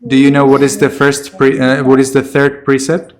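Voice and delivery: firm, loud asking; insistent repeated question. Real, not acted. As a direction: raise your voice to reach an unresponsive student. Repeats question to unresponsive student.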